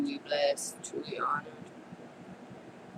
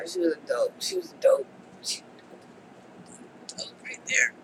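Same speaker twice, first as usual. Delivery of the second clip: tearful high voice; 13 semitones higher than usual. Real, not acted. Overcome with emotion about mom.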